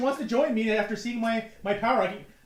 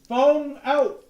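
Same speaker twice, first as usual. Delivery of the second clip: excited cheer; 6 semitones higher, 8 dB louder than usual. Real, not acted. Party cheer.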